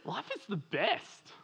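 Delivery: slow and deliberate, with weight on every word; slow emphatic slogan. Shown as a demonstration. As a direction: say it slowly so they can write it down. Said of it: "You can write this down".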